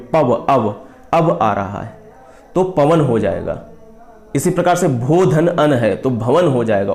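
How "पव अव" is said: पव, अव said as separate pieces; sound breakdown. Shown as a demonstration. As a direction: isolate the अव in पव, अव for learners. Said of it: "अव की ध्वनि देखिए निकल रही है". (पव, अव को अलग-अलग करके ध्वनि दिखाते हुए)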